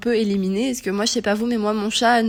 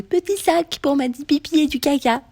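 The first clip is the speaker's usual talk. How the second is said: put-on higher, babyish voice; cutesy baby talk; 6 semitones higher than usual. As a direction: say it like talking to a toddler. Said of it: "C'est normal que tu l'aies dit comme ça?".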